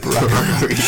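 "broccoli" with r for l, Asian-accent imitation; mock Asian accent. Showing a word that's fun to say, mock Asian accent. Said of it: "making fun of the Asian accent".

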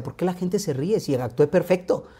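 put-on child's puzzled question. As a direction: lightly voice a hurt four-year-old. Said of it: "le decía".

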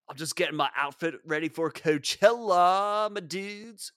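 lightly voiced laid-back bro; casual bro explaining his outfit; Coachella guy. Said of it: "it's Coachella guy".

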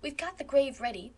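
playful mock-solemn quoting; lightly mocking recital; teasing. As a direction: poke fun at their gloom. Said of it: "she quoted teasingly".

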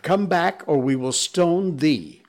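crowd shouting. Acted. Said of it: "shouted the crowd".

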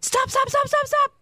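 imitating a frantic dad shouting stop; retold panicked yell. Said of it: "Justin's yelling".

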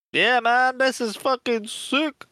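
high, slow dude-bro drawl; stoner dude voice. Retold or imitated. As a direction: gush like a hyped-up gamer. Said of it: "everyone else is just like".

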